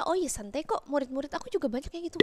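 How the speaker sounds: softly voiced, easygoing reassurance; relaxed retold teacher. Teacher telling the student it is normal, relaxed and soft. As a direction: play down the worry, quietly. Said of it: "kata gurunya".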